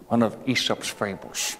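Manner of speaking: ordinary delivery, nothing marked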